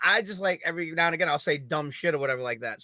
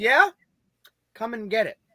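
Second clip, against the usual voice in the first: dry, matter-of-fact, dead straight, a touch high; 5 semitones higher than usual. Retelling a woman at the beach looking him in the face and answering, deadpan.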